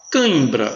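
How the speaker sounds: "cãibra" with a nasal "ã"; nasalized vowel demo. Shown as a demonstration. Teacher demonstrating nasal "ã" in "cãibra" to class. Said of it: "Veja o tio nasalizando aí o A".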